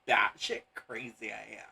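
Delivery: bubbly valley girl, lightly voiced; gushing airhead girl voice. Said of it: "a Valley Girl voice".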